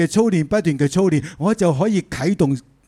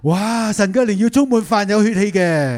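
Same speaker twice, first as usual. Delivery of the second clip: higher-pitched, wondering "wow"; awed exclamation; 6 semitones higher, 3 dB louder than usual. Real, not acted. Preacher marvelling to the congregation at God's promise, awed exclamation.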